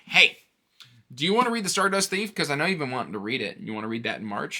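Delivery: chirpy Discord friend pitching a book; eager friend. Retold or imitated. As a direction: pitch up and rush the friendly offer. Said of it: "he was like".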